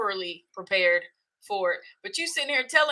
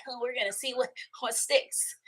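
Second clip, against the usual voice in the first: softer, offhand musing; casual inner shrug; 3 semitones higher, 8 dB quieter than usual. Retold or imitated. Speaker to herself while winging a talk, softly offhand. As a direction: toss it off like you're improvising.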